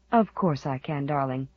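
low, soft reassurance; tender. Acted. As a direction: soothe a sleepy child. Mother soothes sleepy child.

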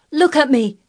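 put-on high, loud boyish cry; triumphant, demanding shout; flung-out challenge. A narrator's reading. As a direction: fling it up at someone defiantly. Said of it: "he flung up at Ben Weatherstaff".

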